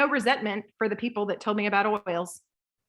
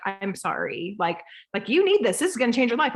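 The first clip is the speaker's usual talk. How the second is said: apologetic then excited. Retold or imitated. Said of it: "our attitude is like".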